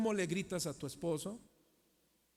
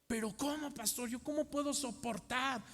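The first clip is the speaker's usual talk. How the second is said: mock objecting believer; 5 semitones higher than usual. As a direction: voice the worried believer asking. Voicing a congregant's objection.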